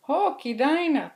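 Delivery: a sudden cry of alarm; surprised exclamation. Acted. Papa Mouse finds the door open, startled cry.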